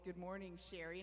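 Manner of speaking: imitating a man's deep Southern drawl greeting; a lightly done Southern good morning. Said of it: "in that really deep Southern drawl voice".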